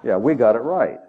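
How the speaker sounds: a hint of self-satisfied believers nodding along; smug conservatives. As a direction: mimic complacent churchgoers lightly. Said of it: "all us conservatives say".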